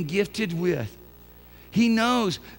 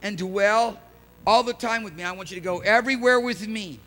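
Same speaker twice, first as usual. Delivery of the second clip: Jesus; 5 semitones higher than usual. Acted. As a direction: stretch out each phrase as an earnest invitation. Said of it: "he's like this".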